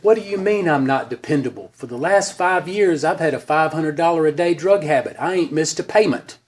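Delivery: put-on slurring drunk; lightly voiced drunk man; drunken voice. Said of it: "best drunken voice and demeanor".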